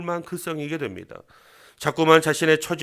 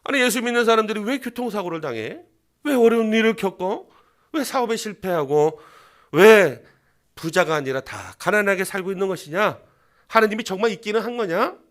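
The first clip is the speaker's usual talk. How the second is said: higher, jeering string of whys; mocking questions; 4 semitones higher, 5 dB louder than usual. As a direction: pile on the scorn. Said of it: "조롱당하고 있는 거랑 똑같은 상황". (조롱하듯 따지는 말투)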